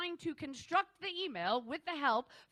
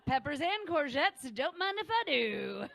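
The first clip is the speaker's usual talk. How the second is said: cheeky innuendo; 4 semitones higher, 4 dB louder than usual. Acted. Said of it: "I was like".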